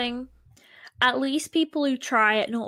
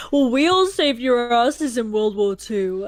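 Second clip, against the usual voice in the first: louder mock-patriot boast; that kind of guy; 5 dB louder than usual. Imagining this guy fighting a British person, mock boastful. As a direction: lightly put on a loudmouth bragging at Brits. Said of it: "he sounds like that kind of guy".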